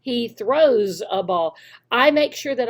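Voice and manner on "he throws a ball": "I throw a ball" and "He throws a ball" said slowly with each word clear; slow correct model. Shown as a demonstration. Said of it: "I say it correctly".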